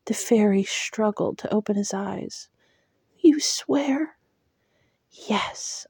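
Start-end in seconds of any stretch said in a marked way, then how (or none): 3.2-4.2 whisper. Acted. Dying fairy asks for oath. 5.1-5.9 a bare breathed whisper. Acted. Girl whispers her promise to the dying fairy. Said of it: "I breathed".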